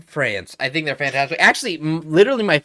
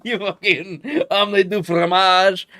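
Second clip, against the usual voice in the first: laughing; 4 semitones higher than usual. Pretend. Mock French insult, laughing.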